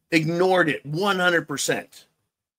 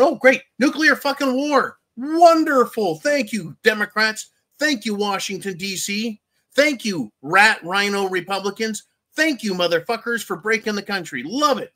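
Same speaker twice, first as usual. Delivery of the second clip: sarcastic fake cheer; 6 semitones higher than usual. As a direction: gush your thanks while meaning the opposite. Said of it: "we're looking around going".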